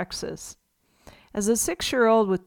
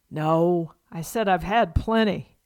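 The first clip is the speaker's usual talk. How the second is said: Pa correcting her, a light Southern twang; patient folksy Southern correction; Southern accent; 2 semitones lower than usual. Retold or imitated. Pa repeats himself to Ma in a mock Southern accent. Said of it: "in their strongest Southern accent".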